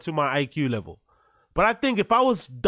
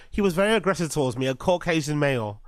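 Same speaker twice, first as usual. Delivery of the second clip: Karen voice; 3 semitones lower, faster than usual. Retold or imitated. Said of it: "talking like a Karen".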